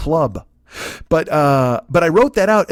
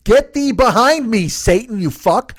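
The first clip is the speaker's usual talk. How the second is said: drawn-out, higher and louder, like a hammed-up preacher; mock preacher rebuke; 6 semitones higher, 4 dB louder, slower than usual. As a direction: proclaim it like a fake prophet casting out Satan.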